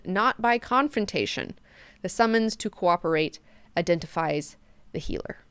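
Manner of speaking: lightly formal book-reading voice; understated recital of a written passage; reading aloud. Acted. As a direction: read out an epigraph with measured emphasis. Reads the chapter header aloud.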